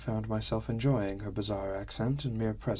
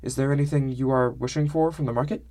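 lightly voiced foreign lilt, a bit higher and louder; Sumi's odd accent; 4 semitones higher, 4 dB louder than usual. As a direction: speak with a quaint, stilted accent.

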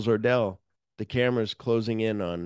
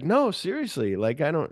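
defensive insisting; 7 semitones higher than usual. Retold or imitated. Lewis insisting to Ordell.

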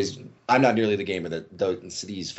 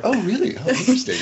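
high, louder mock surprise; mock intrigued; 5 dB louder, faster than usual. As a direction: play it fake-fascinated. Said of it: "So I'm like".

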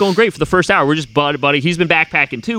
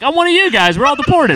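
excited self-quote; 7 semitones higher than usual. Retold or imitated. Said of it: "I'm like".

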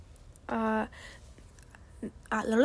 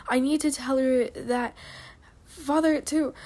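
urgent. Acted. Warzone insisting to Shotgun, urgent and raised. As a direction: push it out with sudden urgency.

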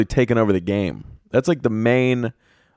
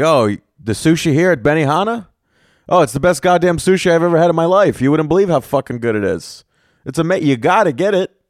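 hammed-up rave review, pitched high; mock gushing; 6 semitones higher than usual. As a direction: gush with exaggerated enthusiasm. Gushing reply to a stranger.

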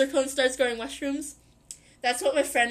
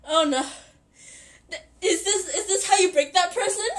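laughing; 4 semitones higher than usual. Retold or imitated. Friends reacting, laughing.

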